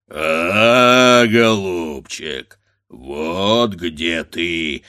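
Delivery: low, slow drawn-out roar; roaring bear. A narrator's reading. A bear mocking the grandfather, roaring. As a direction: growl it like a bear. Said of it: "заревел медведь".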